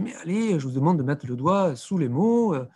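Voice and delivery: imitated teacher getting a touch impatient; mock mild exasperation; mildly annoyed teacher. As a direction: chide the class lightly, as if retelling it. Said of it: "le maître s'énerve un petit peu".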